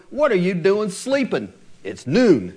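lightly voiced nagging parent, a touch of mock scolding; parent scolding teen. Parent to teenager sleeping at noon, mild mock scolding. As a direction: chide a sleepy teen without much heat. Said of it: "what we say to our teenagers".

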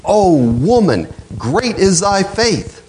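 slow, gentle admiring words; tender praise. Retold or imitated. Jesus praising the pleading mother, slow and tender. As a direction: say it slowly with tender wonder. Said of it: "he says".

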